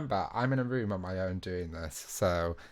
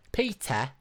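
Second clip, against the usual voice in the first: mimicked catchphrase, pitched up; character impression; 4 semitones higher, 3 dB louder than usual. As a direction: call out the name in character. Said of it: "This person says it like".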